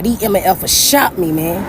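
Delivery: slow, mildly angry retelling; getting mad. Retold or imitated. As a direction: lean into growing anger. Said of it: "He was getting kinda mad".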